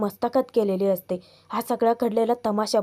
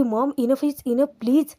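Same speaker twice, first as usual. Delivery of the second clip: slow, firm retold snap, rising on please; a son lightly acting out his outburst; sudden snap; 2 semitones higher, slower than usual. Son finally snapping at his mother, a mild retold outburst. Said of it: "अचानकच तो वचकतो".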